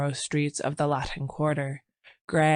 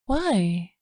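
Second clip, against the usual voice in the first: wide-eyed; 4 semitones higher than usual. Acted. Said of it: "she asked, opening her eyes".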